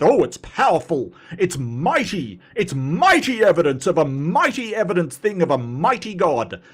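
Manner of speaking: lightly inflated, preachy mock praise; hammed-up grandiose mock. Mocking Donnie's dressed-up evidence, lightly grandiose. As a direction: ridicule the overblown wording. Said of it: "you can't dress it up with".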